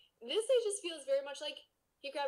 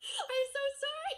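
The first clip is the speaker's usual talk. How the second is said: laughing apology; 4 dB louder than usual. Real, not acted. Apologizing after reading wrong line.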